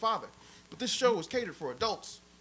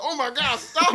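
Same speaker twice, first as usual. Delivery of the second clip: higher, louder panicked stop; mock Marge yelling; 10 semitones higher, 7 dB louder than usual. Retelling Marge begging Homer to stop, higher and louder. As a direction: yell stop, rising sharply. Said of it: "Marge was like".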